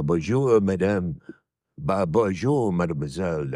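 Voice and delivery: French accent. Shown as a demonstration. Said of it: "I think if I do it in the French accent".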